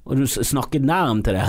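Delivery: normal talking voice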